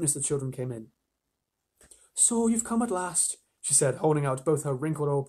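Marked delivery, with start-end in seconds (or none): 2.1-3.4 put-on kindly old she-beaver. A narrator's reading. Missus Beaver greeting the children at last, kindly old voice. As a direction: greet them slowly in a high old-lady voice.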